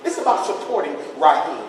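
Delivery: a hint of hushed gossiping teacher; lightly voiced teacher. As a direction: play the teacher confiding in the principal. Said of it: "She go right to the principal office".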